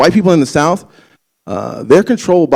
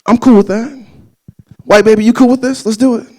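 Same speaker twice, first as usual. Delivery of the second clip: hyped; 9 semitones higher, 3 dB louder than usual. Retold or imitated. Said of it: "I was just like".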